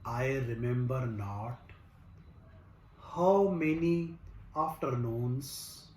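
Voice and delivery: slow, measured recital with long pauses between phrases; poem recitation. Acted. Recites his own poem.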